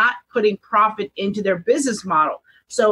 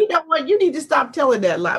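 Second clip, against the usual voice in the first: laughing; 4 semitones higher than usual. Real, not acted. Joking protest at a friend.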